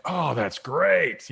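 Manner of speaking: drawn-out, slow delighted exclamation; mock delight. Guest voices everyone's reaction to the third idea, delighted. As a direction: stretch it out as if thrilled.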